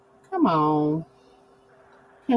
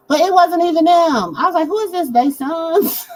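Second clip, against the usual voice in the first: shocked disbelief; 8 semitones higher, 5 dB louder than usual. Retold or imitated. Shocked concert was not them.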